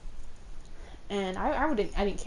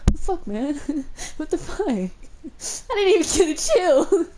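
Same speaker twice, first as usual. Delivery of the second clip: much higher, louder mock outrage; outraged yell; 8 semitones higher, 8 dB louder than usual. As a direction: yell it like you got kicked out unfairly. Outraged at being sent out.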